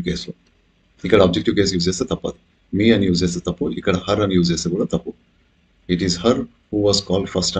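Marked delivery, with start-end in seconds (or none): 5.9-7.6 wrong form. Shown as a demonstration. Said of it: "అని అంటే తప్పు".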